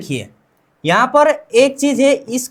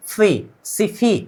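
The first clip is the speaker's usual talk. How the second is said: "फी, सिफी" drawn out syllable by syllable, softer; slow sounding out; 2 semitones lower, 5 dB quieter, slower than usual. Shown as a demonstration. Teacher blending letters for students, slow and drawn out. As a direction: build "सिफी" slowly from "फी". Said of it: "फ plus ई".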